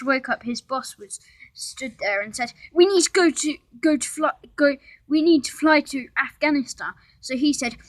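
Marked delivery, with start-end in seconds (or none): 2.7-6.9 urgent order. A narrator's reading. Boss urging Josh.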